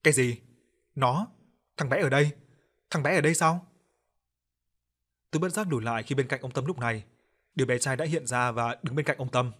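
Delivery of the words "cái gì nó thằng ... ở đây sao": trembling voice. Acted. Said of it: "giọng run run".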